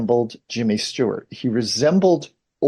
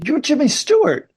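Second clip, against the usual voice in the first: high-pitched, starstruck exclamation; excited recognition. Retold or imitated. Toll taker to father in the car, excited recognition. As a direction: imitate an amazed stranger, pitched way up.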